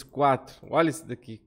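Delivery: ordinary talk, nothing marked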